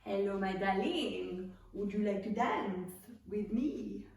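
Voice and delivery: put-on French charmer; French accent. French bean asks darling to dance, in a French accent. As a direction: woo in a playful French accent. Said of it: "You're welcome to do a French accent".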